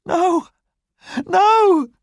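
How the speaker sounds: high, desperate cry; cried out. Acted. Fantine sees the police come in, high desperate cry. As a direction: shriek it in panic. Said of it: "Fantine cried out".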